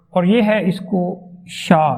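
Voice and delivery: شا کی آواز کھینچ کر، آہستہ; sound demo. Shown as a demonstration. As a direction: slowly model the sound شا. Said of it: "شا والی ساؤنڈ". (شا کی آواز آہستہ ادا کریں)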